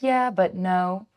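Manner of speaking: put-on slow, defiant little-kid reply; imitating toddler. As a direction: drag it out like a stubborn toddler. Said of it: "And he's like".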